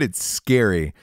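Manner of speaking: usual speaking voice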